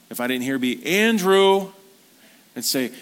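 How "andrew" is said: loud, high full-name call. Retold or imitated. Dad calling his son again by full name, loud call. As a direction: call the name firmly across the house.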